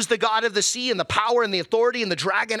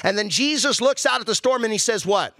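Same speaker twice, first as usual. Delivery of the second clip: usual speaking voice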